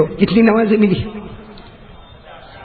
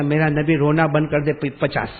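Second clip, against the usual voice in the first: soft, low, tender retelling; loving; 3 semitones lower, 5 dB quieter than usual. Retold or imitated. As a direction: lower the voice to console gently. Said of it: "بڑے پیار سے کہا".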